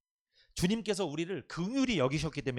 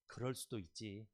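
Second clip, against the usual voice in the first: gentle forgiving; 6 semitones lower, 9 dB quieter, slower than usual. Shown as a demonstration. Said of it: "이 말을 많이 하세요".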